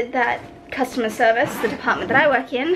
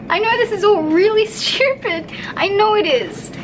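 teary laugh; 7 semitones higher than usual. Real, not acted. Laughing at herself while upset.

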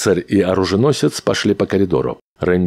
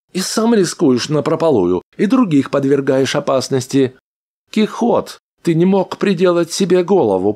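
high, quick little rodent voice; a cheeky mechanical rat; squeaky rat voice; 11 semitones higher than usual. A narrator's reading. Rat character voiced by narrator.

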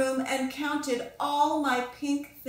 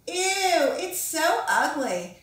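a loud, much higher "Ew", then a slow sneer; disgusted; 5 semitones higher, 4 dB louder, slower than usual. Acted. Classmate sneering at Pinkalicious's sunset painting, loud and slow. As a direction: recoil at the picture, then drag the insult out.

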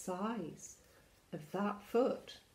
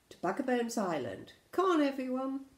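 raised, eager rallying cry; rally the crew, higher and louder by the end; rallying call; 6 semitones higher, 7 dB louder than usual. Acted. Flynn urging friends to sail, calling out.

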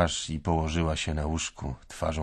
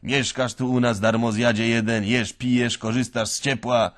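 loud, higher scolding shout; 6 semitones higher, 8 dB louder than usual. Retold or imitated. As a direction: scold the freeloader at full voice. (krzyczy, gani darmozjada)

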